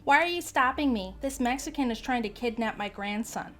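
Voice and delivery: lady protesting to the store worker; indignant lady. Acted. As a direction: demand to know why, outraged.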